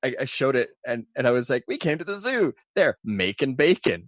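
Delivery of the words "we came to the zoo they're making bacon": playful mock announcement; mock excited joking. Husband joking to wife at the zoo, mock excitement.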